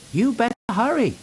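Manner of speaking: teasing. A narrator's reading. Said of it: "teased Thomas".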